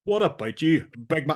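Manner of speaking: hint of a hammed-up Northern Irish accent; Michael Caine attempting Northern Irish. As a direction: parody an actor putting on a Northern Irish accent. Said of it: "here's my Northern Ireland accent".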